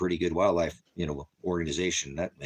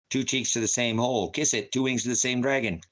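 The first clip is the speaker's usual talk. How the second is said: taunting higher voice; 5 semitones higher than usual. Real, not acted. Taunting a troll.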